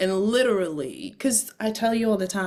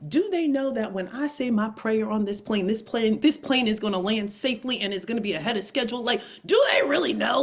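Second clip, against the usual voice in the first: whispered smug boasting that bursts out at the end; ego whisper; 2 semitones higher than usual. Retold or imitated. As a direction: whisper your own importance, then crack. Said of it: "quiet as it's kept in my ego".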